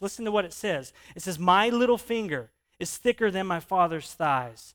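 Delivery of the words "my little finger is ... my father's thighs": loud, lightly mobster-like boast; mafia feel. Acted. Preacher quoting Rehoboam's reply, loud with a hint of mafia. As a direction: read it out as a mob threat. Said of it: "It kinda has that mafia feel".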